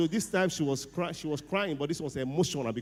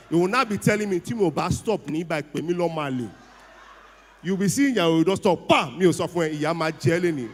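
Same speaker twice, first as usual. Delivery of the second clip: loud, raised, exasperated ranting; 5 dB louder than usual. Acted. Comedian rants loudly to the audience about his breaking-down car. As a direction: vent loudly about the car that always stops.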